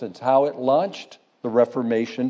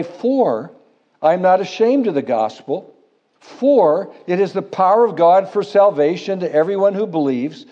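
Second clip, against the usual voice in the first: each "For" hit with weight; reading scripture aloud, punching each "for"; stress on FOR; 3 semitones higher, 4 dB louder than usual. Shown as a demonstration. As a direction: lean on the word "for" every time it comes. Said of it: "I sought to emphasize the word "for".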